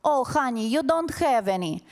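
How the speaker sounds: hammed-up mom yelling to her kid; mock maternal scream. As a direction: imitate a mother hollering from upstairs. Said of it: "she screams down the stairs".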